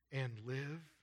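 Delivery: "and live" spaced out after a pause; weight on "and live", lifted as a question; emphasized words. Real, not acted. Preacher rereading verse nine to the congregation, emphasized "and live". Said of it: "notice I emphasize the words".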